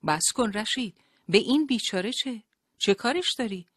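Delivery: indignant shout, pitched well up. A narrator's reading. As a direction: shout to make him stop. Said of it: "داد زد".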